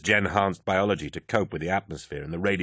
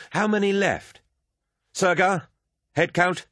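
much higher and louder, shouting across the field; calling out; 12 semitones higher, 4 dB louder than usual. Acted. Torgadden shouts to Sergar over the vox for a head count.

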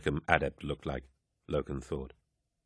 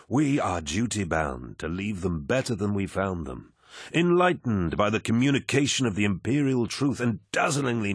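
commanding warrior lord. Acted. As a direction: speak like a genial, mighty lord. Narrator voices Horus.

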